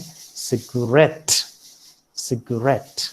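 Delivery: "cigarette" with the accent on the final "rette"; stress on last syllable. Shown as a demonstration. Lecturer giving an example of late accent, "cigarette" stressed on its last syllable. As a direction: land firmly on the end of "cigarette". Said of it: "fall upon the last syllable".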